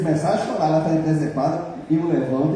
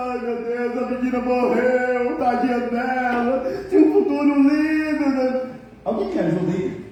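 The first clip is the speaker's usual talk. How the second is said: hammed-up lament, pitched higher and slowed; mock wailing; 7 semitones higher, slower than usual. Parody of a mourner over the dead girl, hammed-up wailing. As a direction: overact the grieving mother for laughs.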